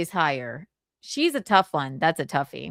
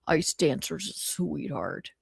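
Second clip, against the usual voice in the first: slow low voice; 2 semitones lower, 6 dB quieter than usual. Retold or imitated. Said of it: "I was talking like Mersh".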